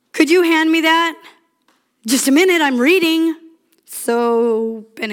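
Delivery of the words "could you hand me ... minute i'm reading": louder, higher put-upon reply; mock spouse exchange. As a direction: brush off the request, a bit raised. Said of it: "how you can act to your spouse".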